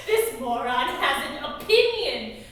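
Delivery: jeering, scornful taunt; mocking. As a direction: sneer at him to the crowd. Rhonda mocks Cameron on stage.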